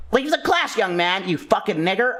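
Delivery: a hint of a strict teacher kicking him out; mock stern teacher. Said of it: "They're like".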